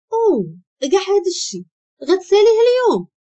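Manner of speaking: high-pitched astonished question; shocked. A narrator's reading. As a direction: voice a stunned colleague, pitch jumping up. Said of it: "هو مصدوم". (بصدمة واستغراب)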